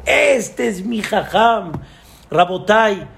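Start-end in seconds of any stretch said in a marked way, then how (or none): 0.0-1.7 with pride. Retold or imitated. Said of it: "Con un orgullo".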